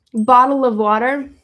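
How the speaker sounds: loud, rough stab at a British accent; amateur British accent, pushed loud; attempted British accent. Shown as a demonstration. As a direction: try a British accent, badly. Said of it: "My British accent is absolutely terrible".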